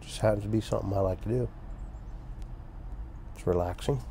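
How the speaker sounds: talking around pipe stem; pipe in mouth. Real, not acted. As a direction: pipe clenched in teeth. Seen 3: Pipe stem held in mouth throughout; smoke exhaled while speaking.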